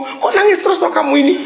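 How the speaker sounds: God asking why they keep crying, puzzled and high. Retold or imitated. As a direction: voice God shaking his head at crybabies. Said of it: "Tuhan tuh bingung".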